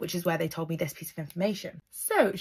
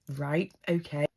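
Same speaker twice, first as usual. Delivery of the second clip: slow, lower, sceptical okay; unimpressed reply; 4 semitones lower, 3 dB quieter than usual. Retold or imitated. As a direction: drag it out like you're not convinced. Acting Amy's unimpressed reply.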